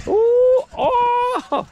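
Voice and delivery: high surprised ooh; impressed ooh. Real, not acted. Dad amazed at his daughter's trampoline tricks, high ooh. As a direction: wow her tricks with a high cry.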